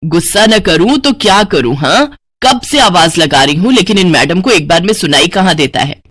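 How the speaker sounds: acted scolding, mildly heated; annoyed mother. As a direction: scold your daughter with rising impatience. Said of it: "क्यों इतना गुस्सा कर रही हो". (नाराज़ माँ की हल्की डाँट)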